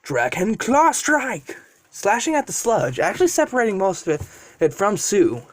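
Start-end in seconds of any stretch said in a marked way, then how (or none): 0.0-1.6 drawn-out, higher-pitched attack call; mock battle yell. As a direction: call out the special move slowly, without real volume. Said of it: "and he yells".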